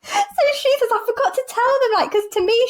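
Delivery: high voice squeezed by giggles; helpless laughter. Retold or imitated. Friend retelling a patient's excuse, laughing helplessly. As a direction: struggle to retell it through laughter.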